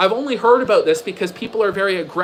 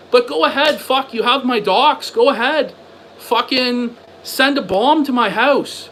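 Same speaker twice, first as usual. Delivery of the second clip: defiant taunting; 4 semitones higher than usual. Real, not acted. Defiant rant at an online enemy.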